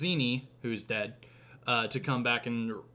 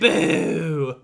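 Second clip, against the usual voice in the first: much higher, much louder booing; booing old woman; 3 semitones higher, 10 dB louder than usual. Acted. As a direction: jeer at the new queen. Again imitating booing.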